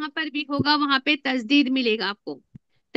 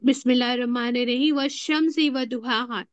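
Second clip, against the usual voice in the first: Quran recitation; 2 semitones lower than usual. Shown as a demonstration. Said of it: "देखो".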